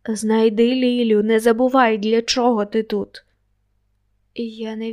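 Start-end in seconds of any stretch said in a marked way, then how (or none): 0.1-3.2 louder, urgent call out of thin air; a disembodied voice pressing a reminder, louder; voice from nowhere. Acted. Natalia calling to the narrator from nowhere, louder and urgent. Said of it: "Голос Наталії донісся ні звідки".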